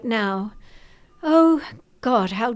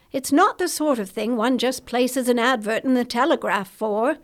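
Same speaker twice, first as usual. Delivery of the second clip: reassuring. Acted. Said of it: "Charles spoke in a reassuring voice".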